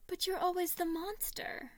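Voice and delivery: put-on high, loud protesting child; arguing. A narrator's reading. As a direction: push back, arguing. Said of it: "Remus argued".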